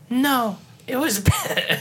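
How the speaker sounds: halting character voice, deliberately ambiguous vowel; Bedtime Paul. Acted. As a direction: drag the answer out, breaking into a laugh. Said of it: "we had a character".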